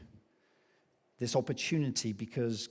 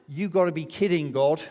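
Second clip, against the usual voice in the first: mock disbelief; 2 semitones higher, 6 dB louder than usual. Gideon's mock protest to God.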